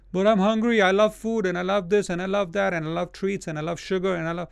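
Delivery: high-pitched run-on list of cravings, easing down; mock whiny complainer. Preacher mimicking believers told to fast, mock complaining.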